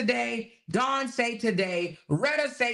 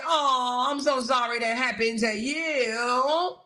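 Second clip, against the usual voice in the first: mock sympathy. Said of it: "want somebody to say".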